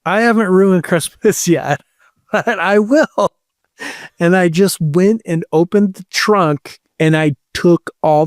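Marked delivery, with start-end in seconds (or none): 0.1-3.3 very calmly. Retold or imitated. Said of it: "very calmly".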